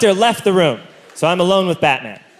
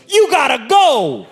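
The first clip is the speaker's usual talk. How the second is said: blunt order; 8 semitones higher than usual. Retold or imitated. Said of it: "he goes".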